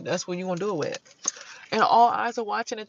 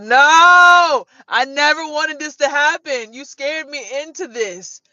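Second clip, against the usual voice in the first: louder, higher, slowing pleading cry; upset protest; 8 semitones higher, 11 dB louder, slower than usual. Retold or imitated. Woman protesting to the man who scared her, loud and pleading. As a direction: protest like you were scared into it. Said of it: "I was like".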